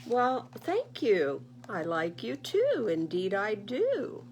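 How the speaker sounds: touched bear. Acted. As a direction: answer gently moved.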